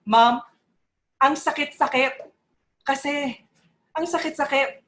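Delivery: lightly voiced tearful plea, in short pieces; retold tearful student. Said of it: "was crying and told me".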